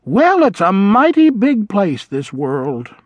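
lightly voiced old vole musing; wistful old vole. A narrator's reading. Old vole telling mouse the world is big, wistful.

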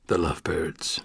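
"The Lovebirds" whispered low and breathless. Acted. Nickname repeated darkly.

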